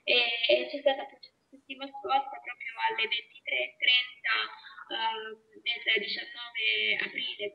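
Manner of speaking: fading, off-tuned radio signal; garbled audio out of band; distorted line. Real, not acted. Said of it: "io davvero non sento nulla". (audio fuori banda, distorto)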